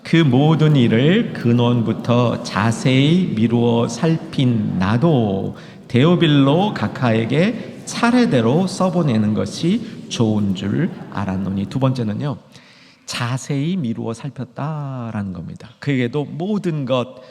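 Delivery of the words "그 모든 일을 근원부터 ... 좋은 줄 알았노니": slow, measured Bible reading; reading scripture aloud. Real, not acted. Preacher reads verse three to the congregation, slow scripture reading. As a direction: read the verse out deliberately, phrase by phrase. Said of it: "자, 삼 절 읽겠습니다".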